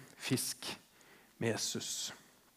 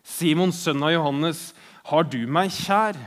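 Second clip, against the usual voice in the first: louder, insistent third asking; rubbing it in; 2 semitones higher, 6 dB louder than usual. Retold or imitated. Jesus asking Peter a third time, insistently. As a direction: press the question home, pointedly. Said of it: "skal gni det inn".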